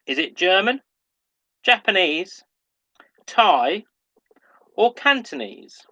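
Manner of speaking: drops to a whisper on the last option. Acted. Quiz host whispering the final answer option. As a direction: breathe it out, no voice.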